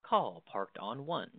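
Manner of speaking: slow, even recorded announcement; automated voice. Retold or imitated. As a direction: read it like a phone system message. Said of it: "An automated voice will say something like".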